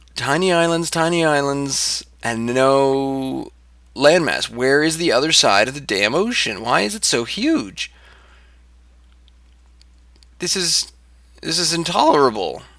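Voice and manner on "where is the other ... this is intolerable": exasperated, frustrated rant with cracking voice. Complaining about sailing across an endless ocean: voice cracking in frustration. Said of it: "It's making my voice crack".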